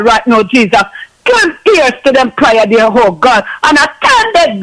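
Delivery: steady, settled prayer rhythm after the outburst; earnest prayer. Acted. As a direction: keep interceding, calmer now, closing on God. Intercessory prayer continues, calmer.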